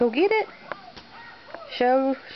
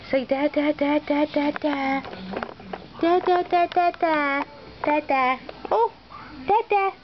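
high sing-song "da, da" babble; baby babble demo; 4 semitones higher than usual. Shown as a demonstration. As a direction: babble "da, da" to get the baby talking.

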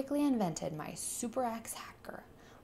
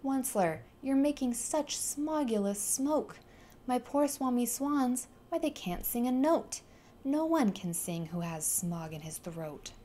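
croaking cry; 5 semitones higher than usual. Acted. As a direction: cry out through a smoggy throat. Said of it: "he cried with a crofulous croak".

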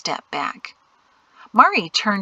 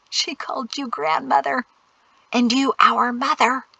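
lightly amused, higher voice; quietly giggly; 6 semitones higher than usual. A narrator's reading. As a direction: tease with a hint of a suppressed giggle. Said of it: "Jatsi giggled quietly".

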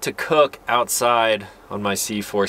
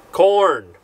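high, louder one-word announcement; playful exclamation; 8 semitones higher, 4 dB louder than usual. Real, not acted. Camper showing off food options, playful exclamation. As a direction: sing out the find, much higher. Calling out food from his stash.

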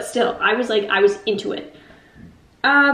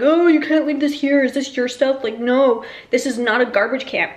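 mock angry yell. Building guardian scolding tenants about street stuff, mock yell. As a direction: play the guardian scolding, half-hearted. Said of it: "yelling at us in French".

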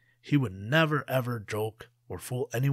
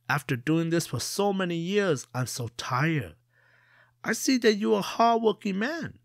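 high, coaxing trickster voice; sly trickster Jia; 7 semitones higher, 3 dB louder than usual. Acted. Jia coaxes the merchant to take his place, high sly voice. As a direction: sweet-talk him into swapping places.

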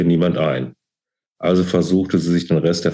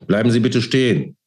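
calling out; 5 semitones higher than usual. A narrator's reading. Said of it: "rief jemand hinter ihr".

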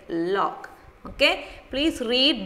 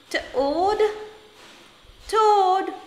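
emphatic drill; 9 semitones higher than usual. Shown as a demonstration. Teacher drilling the word.

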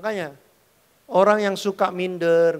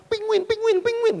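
a silly high cartoon squeak; squeaky penguin imitation. Preacher mocking trash talk, squeaky high penguin. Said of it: "keluar semua kan".

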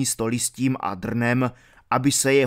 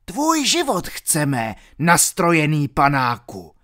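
barked threat; 3 semitones higher, 3 dB louder than usual. Acted. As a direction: bark it at the dandy knight. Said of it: "vyštěkl černý Petr".

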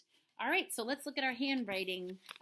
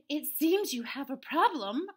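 loud, raised crowing voice; cocky rooster; 6 semitones higher, 9 dB louder than usual. Acted. Rooster greets the stranded farmer, cocky loud crow. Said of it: "a cocky rooster crowed".

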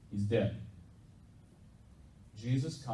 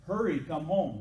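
higher-pitched quick call for help; urgent plea; 4 semitones higher, 3 dB louder than usual. Retold or imitated. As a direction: voice a messenger urging someone home. Messengers' urgent plea retold.

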